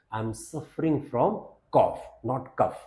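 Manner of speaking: slow and deliberate, cough said as "koff"; slow careful teaching read; slow model sentence. Shown as a demonstration. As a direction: dictate it slowly to a student. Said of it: "कफ wrong pronunciation".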